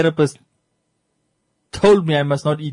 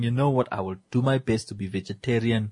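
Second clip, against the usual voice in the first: a light put-on African accent, a bit lower and softer; 4 semitones lower, 6 dB quieter than usual. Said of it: "I had to put on my best African accent there".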